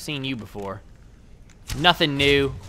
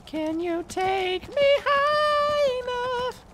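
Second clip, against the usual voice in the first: high falsetto; much slower than usual. Pretend. Asking game to lift him.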